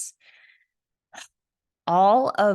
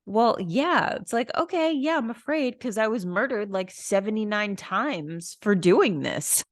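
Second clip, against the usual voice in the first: bubbly high voice making a cosmic joke; imitating the psychic; 5 semitones higher than usual. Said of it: "She's like".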